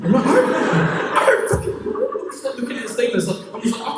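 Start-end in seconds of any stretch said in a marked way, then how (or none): 0.3-2.1 high, slow, laughing mock panic; hammed-up helpless squeal; acted panic. Answering his own stoned brain, mock panicked helplessness.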